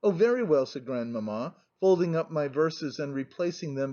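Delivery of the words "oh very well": curt dismissal. A narrator's reading. Grandmamma curtly dismissing the Princess.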